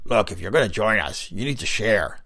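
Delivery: raspy Big Lips. Acted. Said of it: "he rasped again".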